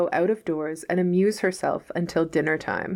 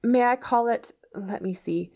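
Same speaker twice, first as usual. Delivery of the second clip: Anne voiced; 6 semitones higher than usual.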